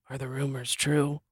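hushed, rasping witch whisper. Acted. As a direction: whisper it like a creepy old witch. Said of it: "the sore throat is good for witch voice".

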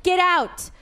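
high, exasperated yell; retold yelling. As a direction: yell at a boyfriend to leave you alone. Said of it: "I'm really sorry I yelled at you".

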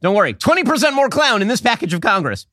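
high, eager pitchman patter; infomercial. Retold or imitated. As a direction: hawk it like a late-night ad. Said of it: "I'm now the infomercial guy".

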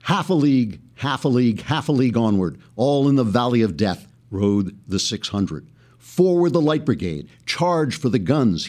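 rhythmic, declaimed, galloping verse; stirring recital of a war poem; poem recitation. Shown as a demonstration. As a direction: let the hooves drum through the lines. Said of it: "you'll recognize some of these famous lines".

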